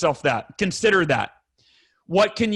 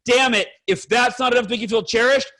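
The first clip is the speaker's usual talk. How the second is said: re-enacted exasperation, higher-pitched; upset outburst; 4 semitones higher than usual. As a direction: burst out as a fed-up husband, mildly. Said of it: "and I get upset".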